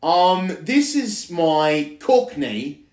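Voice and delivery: put-on Cockney accent. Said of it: "do a Cockney one right now".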